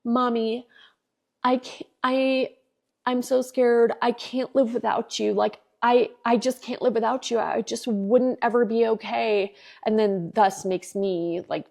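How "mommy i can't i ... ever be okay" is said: mildly pleading retold child voice; retold child's plea, a touch higher; imitating tearful child. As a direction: lightly voice a scared, crying little boy. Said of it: "he was crying and he's like".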